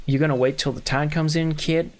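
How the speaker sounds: lightly put-on southern accent. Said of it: "doing a southern accent".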